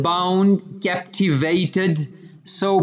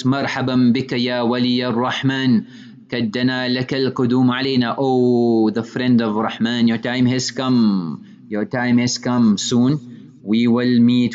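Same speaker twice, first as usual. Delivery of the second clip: lower, gentle welcoming voice of the maiden; beautiful voice; 3 semitones lower than usual. Retold or imitated. Maiden on the golden bed greets the young man in a lower, tender voice. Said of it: "in a beautiful voice".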